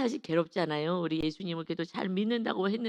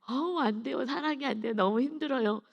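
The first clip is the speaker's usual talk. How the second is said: higher-pitched mock lament of helplessness; imitated struggling complaint; 5 semitones higher than usual. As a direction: act out a member admitting it's too hard. Voicing a struggling church member's complaint.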